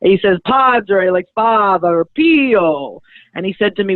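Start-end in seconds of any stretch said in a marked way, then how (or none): 0.4-1.1 put-on slowly spelled-out Italian-accented name; drawn-out, emphatic Italian accent; Padre Pio. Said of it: "such a thick Italian accent". 2.1-3.0 put-on higher, drawn-out Italian-accented name; emphatic Italian accent, falling at the end; Padre Pio. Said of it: "such a thick Italian accent".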